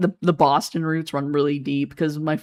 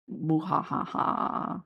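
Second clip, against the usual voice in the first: slow, soft mock villain laugh; evil laugh; 7 dB quieter, much slower than usual. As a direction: attempt a drawn-out evil cackle, quietly. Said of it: "Give us your most evil voice".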